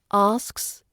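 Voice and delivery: "asks" with s, k and s all sounded; full SKS cluster. Shown as a demonstration. Teacher giving the target word, all three consonants in "asks". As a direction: finish "asks" on a clear sks. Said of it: "Most learners drop one of the sounds".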